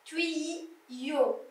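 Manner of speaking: Tuyau drawn out as "tuiii-yo"; syllable-by-syllable pronunciation. Shown as a demonstration. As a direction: softly split Tuyau into "tui" and "yo". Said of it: "ça fait tui".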